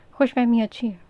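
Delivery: smug smiling retort. A narrator's reading. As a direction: toss it off with a smug smile. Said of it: "उन्होंने मुस्कुरा कर कहा".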